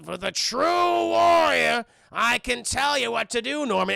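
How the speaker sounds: a hammed-up goblin. Goblin tempting Norman, hammed-up sinister voice.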